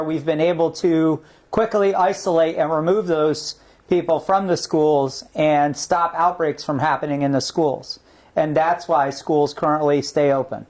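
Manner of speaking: echoey remote audio; big hall echo. Real, not acted. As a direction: voice ringing in a big room. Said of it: "apologize for the echoing".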